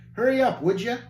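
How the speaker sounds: high, loud bratty bark; barked order. Acted. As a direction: snap the order like a spoiled master. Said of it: "Passion bark at a servant".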